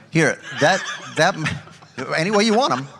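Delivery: laughing sales pitch. Pretend. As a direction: chuckle through a cheesy pitch. Mock menu pitch, laughing.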